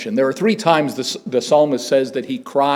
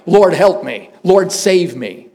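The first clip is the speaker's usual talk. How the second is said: a hint of Peter's desperate plea, the second cry slower; cry for help; 3 semitones higher, slower than usual. Peter sinking in the water, crying to the Lord for rescue. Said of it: "the first one is a cry for help".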